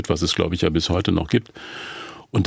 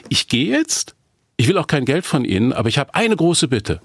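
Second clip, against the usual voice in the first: raised pitch, mock-final announcement; indignant retelling, pitched up; retold indignant walkout; 5 semitones higher than usual. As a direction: re-enact telling the clients you are through. Retold walkout speech to the clients.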